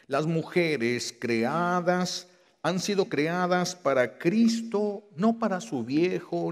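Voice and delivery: slow, drawn out, each word weighed; slow emphasis. Real, not acted. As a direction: spell it out slowly to the women. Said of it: "slow emphatic preaching". (predicador muy lento y enfático)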